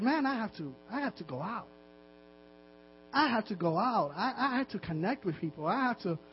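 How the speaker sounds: quietly insist, restarting the phrase; quoted pastor's realization. Retold or imitated. Pastor realizing he must leave the office, quiet insistence. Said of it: "And he said".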